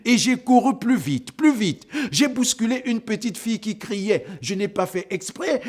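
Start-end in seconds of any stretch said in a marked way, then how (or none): 0.0-4.3 breathless hurry. Acted. Narrator running faster in panic.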